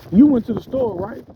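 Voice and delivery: high, loud, rising question in mom's voice; imitating his mom. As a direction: echo her pointed question, rising at the end. Son voices his suspicious mom.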